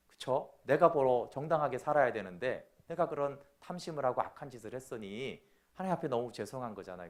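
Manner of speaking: ordinary talk, nothing marked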